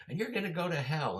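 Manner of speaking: hammed-up hellfire outburst; mock angry preacher. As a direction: imitate a preacher condemning someone. Imitating angry preacher's threat.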